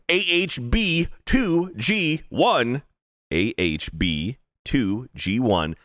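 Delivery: slowly spelling out the code; slow code read. Real, not acted. Host reading the promo code slowly for listeners. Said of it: "slow spelled-out promo code".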